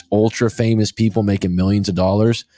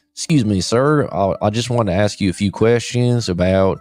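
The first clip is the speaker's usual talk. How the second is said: light mock Memphis accent; lightly imitated Southern accent from Memphis. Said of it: "I've never heard that accent".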